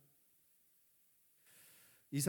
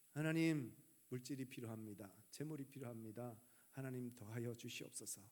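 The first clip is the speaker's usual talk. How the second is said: understated earnest prayer, dropping soft after the call; 간절한 기도; 3 semitones lower, 4 dB quieter than usual. Acted. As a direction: plead quietly with God, lightly acted. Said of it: "간절히 기도했습니다". (조용히 간절하게 기도하듯)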